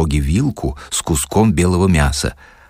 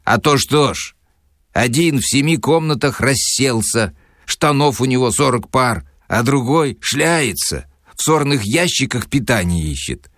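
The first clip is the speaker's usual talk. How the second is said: higher lout, lightly voiced; Sharikov's voice; 4 semitones higher than usual. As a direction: grumble it like a coarse lout. Sharikov explains dividing everything. (Шариков ворчит, слегка озвучено)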